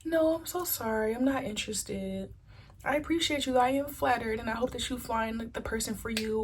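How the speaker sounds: a soft apologetic turn-down; soft rejection. Retold or imitated. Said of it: "you reject them in a very soft way".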